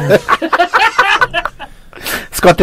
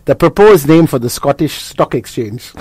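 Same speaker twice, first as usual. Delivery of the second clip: put-on British-sounding accent; 4 dB quieter, slower than usual. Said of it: "he sounds intelligent with that accent".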